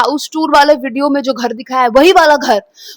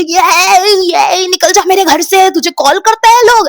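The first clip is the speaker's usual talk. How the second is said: higher, rising angry shout; mother throwing her out; 6 semitones higher, 3 dB louder than usual. Retold or imitated. Mother ordering her daughter out of the house, rising angry shout. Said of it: "mummy ऐसे ऐसे करके मुझसे बात कर रही है".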